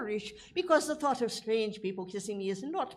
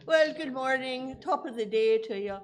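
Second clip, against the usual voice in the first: fake Irish brogue; 4 dB louder than usual. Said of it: "doing me fake Irish brogue".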